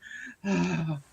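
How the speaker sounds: long exhaled sigh of fake bliss; mock pleasured sigh. Imitating the Emperor liking it, mock blissful sigh. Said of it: "And he's like".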